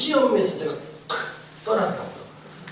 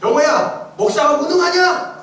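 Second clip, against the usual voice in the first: voice of God; 6 semitones higher, 4 dB louder, slower than usual. Retold or imitated. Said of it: "뭐라고 말씀하셨냐면".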